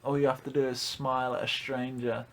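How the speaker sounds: white knight voice. Retold or imitated. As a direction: lecture like a smug nice guy. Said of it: "White Knights, like".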